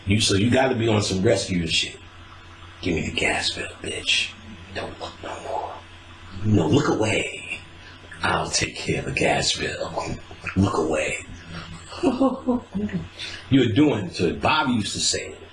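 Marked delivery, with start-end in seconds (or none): 2.8-11.2 low, soft almost whisper, coaxing; hushed rescuer. Acted. Man soothing his woman over bills, soft low hush. 11.2-13.4 breathy high laugh; high laughter. Real, not acted. Laughing at his own rescuer bit, high breathy laugh.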